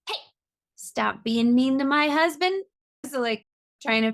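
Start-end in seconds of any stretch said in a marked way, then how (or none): 0.1-2.6 higher-pitched mock telling-off; playful scolding. Wife to self-critical husband, playfully scolding. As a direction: step in protectively with a lifted, mock-stern call.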